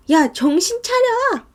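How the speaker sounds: high, drawn-out urgent cry; retold crying plea. Friend snapping the panicking narrator out of it, tearful urging. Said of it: "이러면서 막 울면서".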